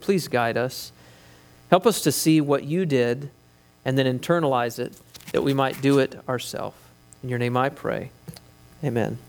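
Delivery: hushed, earnest prayer voice. Real, not acted. Pastor leads opening prayer.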